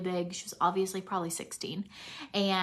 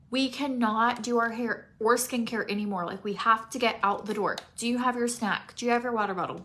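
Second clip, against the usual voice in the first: hurried mom; 4 dB louder than usual. Retold or imitated. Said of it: "Give me, like, two weeks when I'm like".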